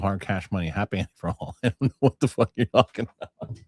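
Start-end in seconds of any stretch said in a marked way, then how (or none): 1.6-3.6 mock confused listener. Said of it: "This is what I hear".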